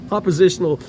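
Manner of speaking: oppositional tripped over, halting; stumbling word. Real, not acted. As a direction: trip on "oppositional" mid-word. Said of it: "I can't even say it".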